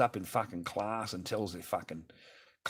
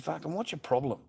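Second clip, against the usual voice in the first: raised angry challenge; angry yell; 6 semitones higher than usual. Retold or imitated. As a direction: confront her angrily. Retelling yelling at ex.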